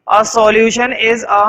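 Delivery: very slow, word-by-word; teacher dictating the first property; slow dictation. Shown as a demonstration. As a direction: dictate so every student keeps up. Dictating definition.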